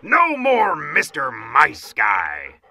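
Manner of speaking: slow, loud bellow building to the end; drawn-out commander's war yell; shouted threat. A narrator's reading. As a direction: stretch it into a battle cry. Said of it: "shouted the Big Cheese".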